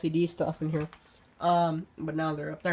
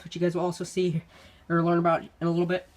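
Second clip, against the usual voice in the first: short of breath while talking. Real, not acted. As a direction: run out of air mid-sentence. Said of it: "Sorry, I'm running out of breath".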